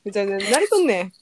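quick, bright Kansai delivery; Kansai dialect. Shown as a demonstration. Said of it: "上手やね、関西弁".

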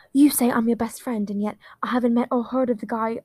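put-on patchy British accent. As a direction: slip in and out of British. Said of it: "the British accent is really coming in and out".

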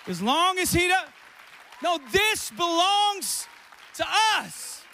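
high, loud, slow shouted preaching; preaching at full force. Acted. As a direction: build to a thundering proclamation. Preacher repeats shouted claim.

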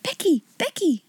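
loud whisper calling a sleeping friend; a girl waking her friend in a loud hush; urgent whisper. Acted. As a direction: whisper as loud as you dare. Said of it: "she whispered as loudly as she dared".

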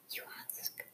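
distant whispered echo; faint echo. Pretend. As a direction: let it fade like an echo.

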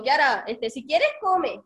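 tentative, pitch lifting at the end; hesitant suggestion. Acted. Owner telling Kiara to eat if she wants, hesitant suggestion. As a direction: offer it as optional, without authority. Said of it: "Pero si yo le digo".

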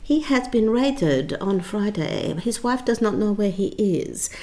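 a mild mock Chinese accent in broken English; a producer's Chinese accent, imitated with an apology; terrible Chinese accent. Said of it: "I apologise for the terrible Chinese accent".

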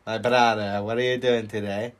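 lightly faked Greek accent; attempted Greek accent. Demonstrating the accent to a doubting friend, attempted Greek accent. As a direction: try a mild Greek accent, rising at the end. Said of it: "Was that a Greek accent".

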